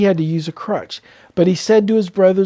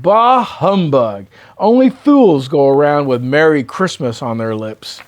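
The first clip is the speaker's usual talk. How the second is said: grumpy Scrooge; 4 dB louder than usual. Acted. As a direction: spit out the humbug in contempt. Scrooge voiced in story.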